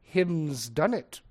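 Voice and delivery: slow, drawn-out mimicry of bad grammar; imitating a mother's slow mockery; mocking follow-up. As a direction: savour each wrong word, teasing. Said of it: "she'd follow it up by saying".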